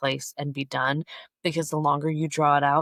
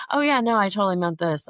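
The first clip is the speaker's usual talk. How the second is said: higher, louder opening of a mimicked reply; easygoing apology; 4 semitones higher, 5 dB louder, faster than usual. Imagined friend answering a feared confrontation, readily apologetic. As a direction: imitate a friend readily owning up.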